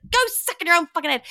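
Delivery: quick, high, loud repeat of an insult; Lydia. Retold or imitated. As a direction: rattle off the silly comeback at full voice. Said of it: "And she's like".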